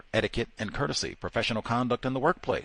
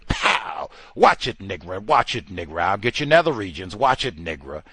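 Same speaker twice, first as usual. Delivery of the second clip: voicing racist officer; 2 semitones lower, 6 dB louder than usual.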